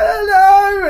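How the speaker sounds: high, loud mock child's wail. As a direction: bawl it like a lost kid. Imitates hurt child answering.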